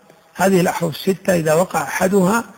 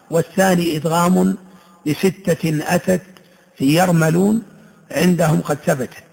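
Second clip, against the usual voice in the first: measured recital of verse; teaching verse; poem recitation. Shown as a demonstration. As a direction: recite the line as a chant. Recites didactic poem lines.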